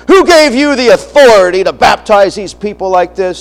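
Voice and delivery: imitating a boisterous challenger; loud and boisterous. Man confronting the preacher over baptisms, imitated boisterous challenge. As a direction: challenge him with mock bluster. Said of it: "come up to me all loud and boisterous".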